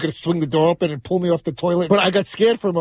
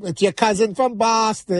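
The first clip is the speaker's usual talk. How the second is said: put-on Boston accent; 5 semitones higher, slower than usual. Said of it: "making fun of, like, the, the Boston accent".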